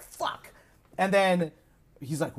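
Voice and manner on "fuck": breathy whispered swear under the breath; whispered curse. Retold or imitated. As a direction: whisper it, deflated. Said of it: "the Grinch is like".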